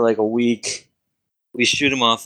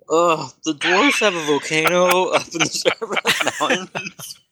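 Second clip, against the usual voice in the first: wizard giving directions; 6 semitones higher than usual. Acted. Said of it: "He goes".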